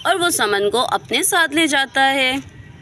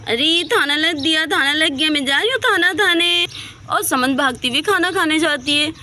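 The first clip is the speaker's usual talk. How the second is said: put-on higher, eager little girl voice; excited childlike girl; 3 semitones higher than usual. Little girl rushing to eat, higher and eager. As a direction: sound like a small child thrilled about dinner.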